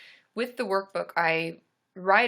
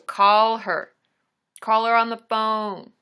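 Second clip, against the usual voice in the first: louder, firm, deliberate call her; emphatic advice; 7 dB louder, slower than usual. Real, not acted. Telling Carly to phone the lady, firm and loud. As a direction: lay down the law, slowly and loud. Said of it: "Here it comes".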